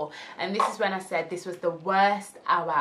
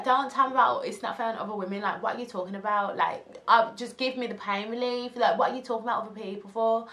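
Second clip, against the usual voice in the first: retold exasperation; 4 semitones higher, faster than usual. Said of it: "I was like".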